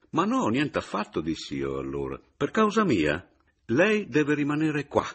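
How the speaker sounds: earnest protest. A narrator's reading. Meis insisting Papiano remain, earnestly. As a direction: press him to stay.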